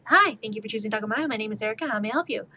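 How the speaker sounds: fast, chirpy drive-thru greeting; customer service voice. Acted. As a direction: rattle it off like a cashier at the window. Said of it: "I could do the customer service voice".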